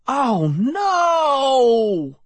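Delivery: high panicked cry; cry of alarm. A narrator's reading. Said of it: "I cried".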